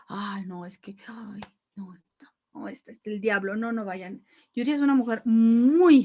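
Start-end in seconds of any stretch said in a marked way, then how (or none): 0.1-4.2 hushed, scandalised mock warning; mock critics. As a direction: imitate gossiping church critics. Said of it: "Criticamos mucho".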